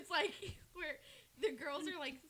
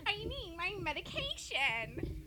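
Fred voice; 4 semitones higher, slower than usual. Retold or imitated. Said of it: "Fred, where he's like".

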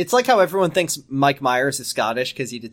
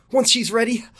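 lightly dramatised, raised pitch; acted dialogue; 9 semitones higher than usual. Reader voices Ricky asking to marry the daughter, acted dialogue. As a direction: read it as a higher-pitched character line. Reads Ricky's line aloud.

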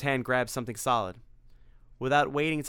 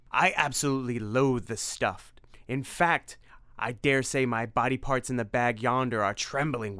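vampire voice; 4 dB louder than usual. Acted. Narrator voices Dracula Simon.

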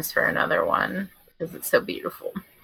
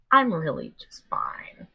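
slow, soft, too-calm reassurance; forced calm; 3 dB quieter, slower than usual. Real, not acted. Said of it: "Should use this for your commercials".

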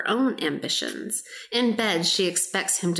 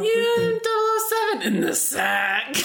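laughing; 13 semitones higher than usual. Real, not acted. Cracking up at own joke.

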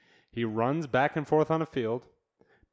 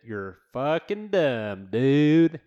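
exasperated; 4 semitones higher, 9 dB louder, much slower than usual. Real, not acted. Ranting at yard-sign people.

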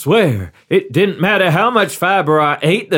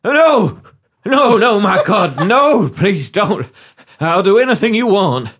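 panicked pleading; 4 semitones higher than usual. Acted. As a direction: beg the interrogators to stop, hammed-up. Ambassador begs against torture.

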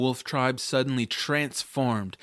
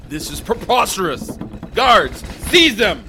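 roaring tyrant king; 9 semitones higher, 9 dB louder than usual. Acted. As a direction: bellow the order at the guards. King orders guards seized.

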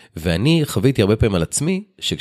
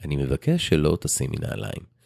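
softer, slower, measured request; calm polite request; 4 semitones lower, 6 dB quieter than usual. Retold or imitated. Father gently asking his daughter to wear shoes, soft and slow. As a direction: ask gently and slowly, no edge. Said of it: "אם הייתי מביע את זה ב".

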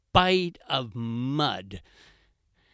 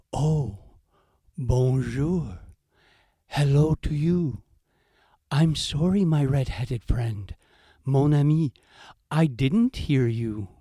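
a hint of a polite, unhurried heron; light heron voice, slowed, politely apologetic; calm heron; 4 dB louder than usual. Heron answers fox.

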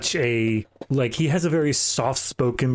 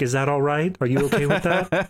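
overly considerate villain; 3 semitones higher than usual. Retold or imitated. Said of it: "he was just gonna say".

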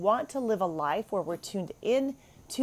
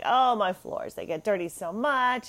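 mock dramatic complaint; 3 semitones higher than usual. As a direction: play up the drama of a small chore. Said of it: "That's just the drama about it".

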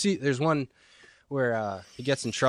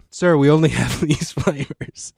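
clerk voice; 4 semitones higher, 6 dB louder, slower than usual. Retold or imitated. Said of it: "trying to order ice cream".

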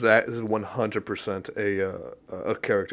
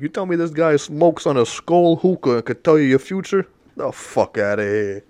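mock outburst; 5 semitones higher, 6 dB louder than usual. Mocking a skeptic's outburst.

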